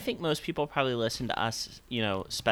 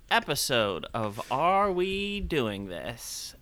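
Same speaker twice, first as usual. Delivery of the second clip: slow intro read; much slower than usual. Acted.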